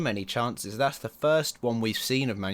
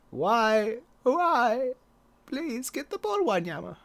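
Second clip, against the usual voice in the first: desperate cries; 11 semitones higher, slower than usual. Real, not acted. Despairing at the game.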